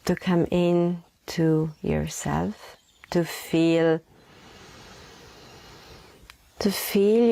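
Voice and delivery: unhurried meditation voice with long pauses; guided meditation. Acted. Leads a breathing meditation.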